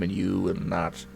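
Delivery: light imitation of a deep booming voice; a touch of the deepest man in the room; deep-voiced man. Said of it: "the deepest sounding man in the room".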